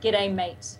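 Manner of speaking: a clear Australian "G'day, mate", run together as one word; Australian greeting demo. Shown as a demonstration. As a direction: model the Aussie greeting for the host to copy. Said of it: "You have to, can you try that?".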